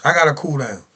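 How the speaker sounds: slow, soft, settling himself; talking himself down, slow and soft; cooling down. Real, not acted. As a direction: breathe out and cool it down slowly. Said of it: "let me cool down".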